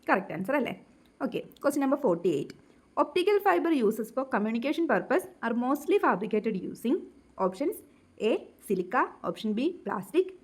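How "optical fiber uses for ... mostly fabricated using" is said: reads the question out very slowly, word by word; slow question reading. Acted. Teacher reading exam question aloud to students, very slow dictation.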